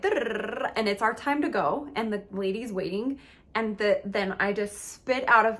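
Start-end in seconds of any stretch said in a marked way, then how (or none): 0.0-0.7 stalling brain noise. Retold or imitated. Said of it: "So the brain's like".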